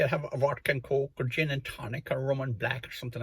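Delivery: put-on posh Cockney accent. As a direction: order drinks like a toffee-nosed Cockney returnee. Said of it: "with a posh Cockney accent".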